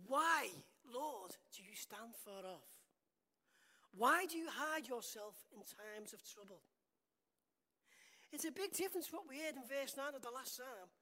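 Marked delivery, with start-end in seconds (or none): 0.1-6.6 mildly raised cry, loud on the opening words. Acted. David in trouble pleading with God, crying out. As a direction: call out to God in earnest, drawing out the plea. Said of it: "he's crying out to God".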